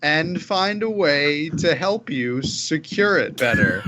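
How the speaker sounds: drawn-out, self-important official; slow pompous wizard. Acted. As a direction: stretch every word like a grand mage. In-character pitch to guard.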